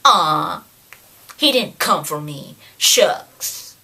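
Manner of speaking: low, pouting disappointment; play-acted dejection; mock heartbroken. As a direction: sulk like a let-down child, hammed up. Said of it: "like, almost heartbroken".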